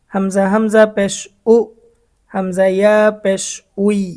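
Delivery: measured Quran-class drill cadence; Arabic letter spelling drill. Shown as a demonstration. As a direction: spell out hamza plus letter plus pesh, then the sound. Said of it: "আমি আরও একবার উচ্চারণগুলা বলছি".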